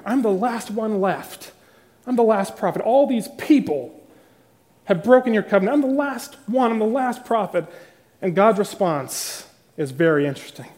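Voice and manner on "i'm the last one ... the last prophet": higher, pleading, self-pitying lament; self-pitying complaint. Retold or imitated. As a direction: whine that he's all alone. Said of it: "But can you hear?".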